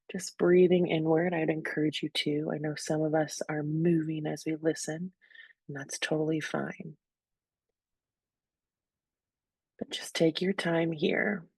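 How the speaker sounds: calm, unhurried meditation guidance with long pauses; guided breathing. Real, not acted. Host inviting listeners to breathe deeply where they are, calm guidance. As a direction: ease listeners gently into their breath.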